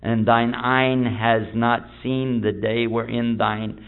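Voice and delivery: slow mock old English; hammed-up King James reading; elizabethan english. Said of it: "In what's called Elizabethan English".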